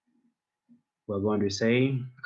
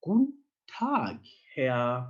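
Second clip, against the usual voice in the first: acted receptionist; 2 semitones higher, 4 dB louder, slower than usual. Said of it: "And she says".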